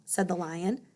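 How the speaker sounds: gentle storyteller reading aloud; story narration. A narrator's reading. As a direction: read it like a bedtime story to a child. Reads a story to children.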